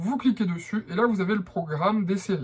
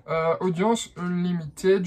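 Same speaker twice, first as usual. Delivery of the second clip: English name said slowly in a thick French accent; slower than usual. Shown as a demonstration. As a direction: say "audience Unlimited" the French way, slowly. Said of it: "je vous le dis avec l'accent français". (avec l'accent français, lentement)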